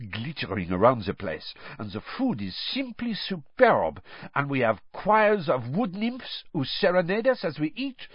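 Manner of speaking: put-on haughty French girl voice; airy, scornful boasting; dry disdain. Fleur voiced in audiobook.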